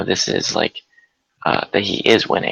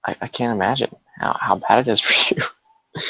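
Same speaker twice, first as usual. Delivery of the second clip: laughing mock sympathy. Mock apology to Eric.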